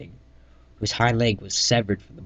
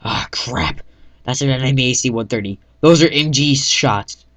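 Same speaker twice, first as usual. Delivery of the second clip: urgent shout; 4 semitones higher, 9 dB louder than usual. Acted. Staff sergeant warns squad of enemy gunship, shouting. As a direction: bark the warning over gunfire. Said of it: "said the staff sergeant".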